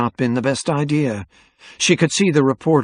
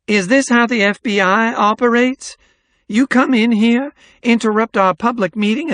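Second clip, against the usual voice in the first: high-pitched indignant woman; imperious scolding in a raised, high voice; haughty outrage, demanding credentials; outraged Missus Kermode; 10 semitones higher, 4 dB louder than usual. A narrator's reading. Outraged woman challenges FBI agent.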